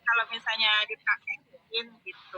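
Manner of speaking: choppy breaking-up call audio; corrupted glitchy audio. Real, not acted. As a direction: voice cutting in and out. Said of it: "suaranya nggak jelas".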